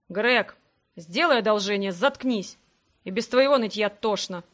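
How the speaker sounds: curt rebuke. Acted. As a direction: cut the whiner off firmly. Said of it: "одёрнул его Себастьян". (резко одёргивая нытика)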